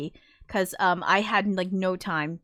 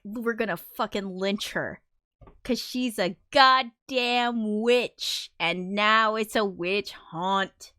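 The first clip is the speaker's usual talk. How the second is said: angry mob; 2 semitones higher, slower than usual. Retold or imitated. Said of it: "now they're like".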